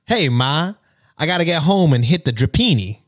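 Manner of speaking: lightly voiced Italian-American mobster; a hint of wiseguy accent; mock mobster, mildly done; fake mobster accent. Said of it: "make asides in this voice".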